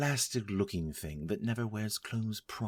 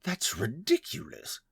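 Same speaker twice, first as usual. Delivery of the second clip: higher, scoffing outrage; indignant outburst; 9 semitones higher than usual. Acted. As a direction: scoff in disbelief. Outraged reaction.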